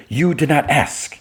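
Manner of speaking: slow, high, deliberate mock accusation; hurt reproach. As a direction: spell it out like a wounded friend. Kara's final reproach, slow.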